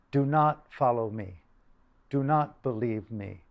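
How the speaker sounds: slow, deliberate retold command; emphatic. Monks and nuns instructing their followers, slowly emphatic. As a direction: weigh each word, at an unhurried pace. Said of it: "were very emphatic".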